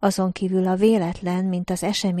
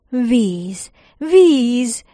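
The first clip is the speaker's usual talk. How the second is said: loud, higher shout on the second Víz!; excited cry; 5 semitones higher, 8 dB louder than usual. Acted. Two parched men spot water below, loud cry. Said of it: "hördültünk fel egyszerre Roberttel".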